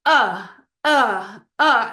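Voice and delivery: repeated hard glottal uhs; loud, stopped uh pulses from the throat; uh oh throat stop drill. Shown as a demonstration. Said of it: "you will actually vocalize it".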